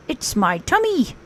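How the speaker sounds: a dreamy, simple little bear; Pooh. Acted. Pooh telling Rabbit about his pumpkin, dreamy bear voice. Pooh's realization.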